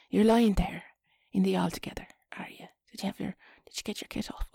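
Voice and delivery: awkward seductive whisper; sexy whisper. Pretend. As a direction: try to sound seductive, a bit awkward. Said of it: "trying to be sexy now".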